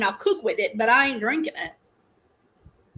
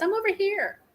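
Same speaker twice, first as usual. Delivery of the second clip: imitating Siri; 8 semitones higher than usual. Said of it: "she usually does".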